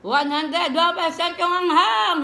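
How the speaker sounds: slow, loud cry about the heat; loud exclamation. Real, not acted. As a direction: belt it out in fiery pain.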